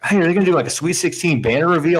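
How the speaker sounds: high, eager question; excited freshman. Retold or imitated. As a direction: ask like a hopeful young fan. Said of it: "I was all excited".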